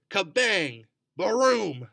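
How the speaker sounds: loud, high thunder blasts; booming thunder. A narrator's reading. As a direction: shout the thunder noises out. Imitating thunder in storm story.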